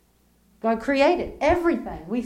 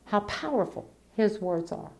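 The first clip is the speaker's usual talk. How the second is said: softer echo of the same phrase; hushed repeat; 6 dB quieter than usual. Shown as a demonstration. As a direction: let it fall to a near hush.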